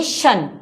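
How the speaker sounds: शन as a short "shun"; "shun" pronunciation. Shown as a demonstration. Teacher answers own question on T-I-O-N, शन said "shun". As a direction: answer with शन, a plain sh-un syllable. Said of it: "T I O N को क्या pronounce करेंगे".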